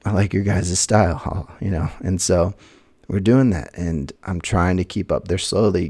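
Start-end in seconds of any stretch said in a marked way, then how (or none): 0.0-1.2 eager agreement. Retold or imitated. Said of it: "I was like".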